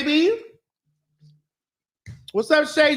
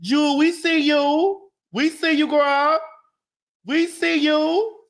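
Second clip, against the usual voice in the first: sing-song shout-out; 5 semitones higher, slower than usual. Real, not acted. Shouting out live viewers.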